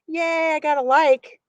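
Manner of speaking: real little thrill at a like; excited. Real, not acted. Live stream gets a like.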